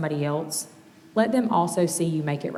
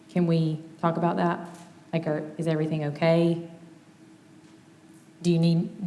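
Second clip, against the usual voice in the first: gentle request. Shown as a demonstration. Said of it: "it may be fair to say".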